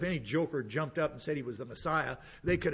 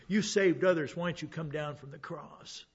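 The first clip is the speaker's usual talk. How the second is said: mocking jeer; 2 semitones higher than usual. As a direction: lightly act out a jeering onlooker. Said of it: "they're mocking him".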